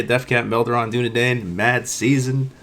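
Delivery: flat, even monotone delivery; monotone, barely any lift. Real, not acted. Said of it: "the monotone voice".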